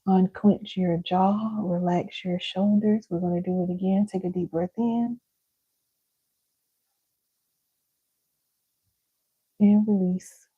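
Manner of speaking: calm breathing cue, gently led; unhurried breath-work guide; guided breathing. Shown as a demonstration. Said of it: "let's do this together".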